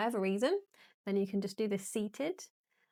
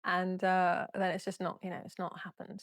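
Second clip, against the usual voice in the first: ordinary delivery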